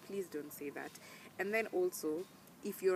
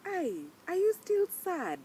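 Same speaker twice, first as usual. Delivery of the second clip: mocking pastor; 10 dB louder, slower than usual. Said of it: "he calls and he's like".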